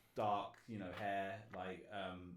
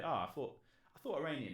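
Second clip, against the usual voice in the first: higher, tentative confession; timid admission; 5 semitones higher, 4 dB louder than usual. Retold or imitated. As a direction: venture the guess with a little reluctance. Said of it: "brought the courage up to say".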